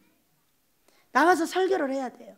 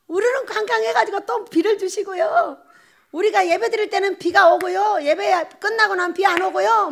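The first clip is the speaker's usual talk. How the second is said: imitating a happy child; 6 semitones higher, 4 dB louder than usual. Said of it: "이 아이가 가면서 하는 말".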